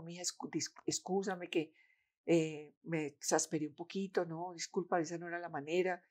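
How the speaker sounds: softly imitating an apologetic father; subdued retold apology. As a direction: apologise quietly, haltingly.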